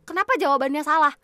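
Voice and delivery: loud, high, fast complaining outburst; indignant rant. Real, not acted. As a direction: yell at the game that it's unfair. Protests wrong quiz answer in game. (protes marah keras dan tinggi)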